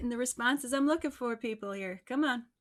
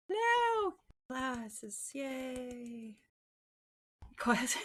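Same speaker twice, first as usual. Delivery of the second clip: excited greeting; 4 semitones higher, much slower than usual. Real, not acted. Host greeting the new guest with excitement. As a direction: greet him with a big lift.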